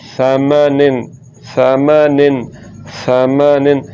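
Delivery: lisped first sound in समानिन; no whistle. Shown as a demonstration. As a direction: say समानिन as "thamanin". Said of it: "सीटी के बाद के बगैर".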